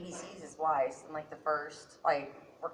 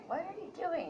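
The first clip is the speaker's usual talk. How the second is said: high inflection; 12 semitones higher, 4 dB quieter than usual. Shown as a demonstration. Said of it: "just a bunch of different inflections".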